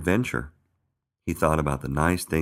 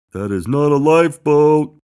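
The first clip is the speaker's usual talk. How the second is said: loud, high protest; big high-pitched yell; shouting; 11 semitones higher, 12 dB louder than usual. A narrator's reading. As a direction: shout back in objection. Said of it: "shouted Buddy".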